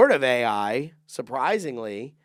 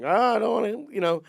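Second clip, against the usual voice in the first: retold teasing; 8 semitones higher, 4 dB louder than usual. Kid teasing mom after rabbit hit.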